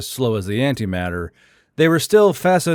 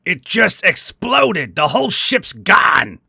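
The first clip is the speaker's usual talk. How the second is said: panicked report; 6 semitones higher than usual. A narrator's reading. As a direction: blurt the disaster in alarm. Panicked captain reports disaster.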